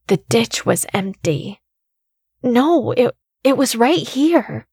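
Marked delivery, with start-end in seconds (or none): 2.4-4.7 breathless whisper. A narrator's reading. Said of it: "I whispered breathlessly".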